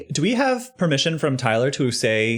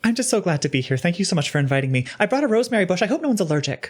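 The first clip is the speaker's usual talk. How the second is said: character voice; faster than usual. Acted. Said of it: "your character voice".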